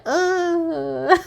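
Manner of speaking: high laughing uh through a half cry; a startled laughing groan at walking miles with no water. Retold or imitated. Reacting to being told to walk without water, laughing. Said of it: "I'm like".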